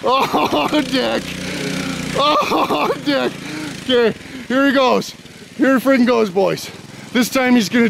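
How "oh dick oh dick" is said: chuckling through the words; laughing exclamation. Real, not acted. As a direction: break up laughing on each oh. Laughing at the failed attempt.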